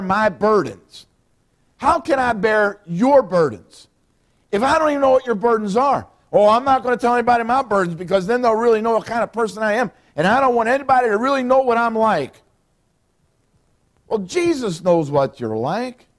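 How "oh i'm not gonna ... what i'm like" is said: mock reluctant churchgoer. Churchgoer hiding burdens, voiced.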